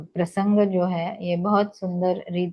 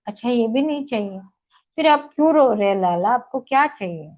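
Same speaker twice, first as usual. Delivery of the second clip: exasperated coaxing; 4 semitones higher, 4 dB louder, faster than usual. Acted. Gopi pleading with crying Krishna.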